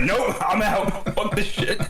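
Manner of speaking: high, slow cartoon dog voice; spooked dog voice. Dog fleeing a kicked box, high and slow. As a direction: drag it out as a dog bailing.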